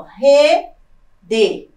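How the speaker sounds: rede broken in two, loud RE, pause, DE; stress on first syllable. Shown as a demonstration. Teacher repeats for the class, rede split with loud RE. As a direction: split rede and hit RE hard. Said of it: "novamente, ó".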